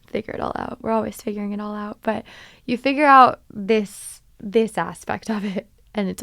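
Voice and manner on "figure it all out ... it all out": soft reassurance. Real, not acted. Soft reassurance to younger self.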